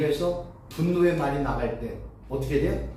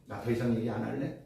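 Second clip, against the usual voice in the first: quiet self-talk; 7 semitones lower, 8 dB quieter than usual. Retold or imitated. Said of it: "막는 거죠".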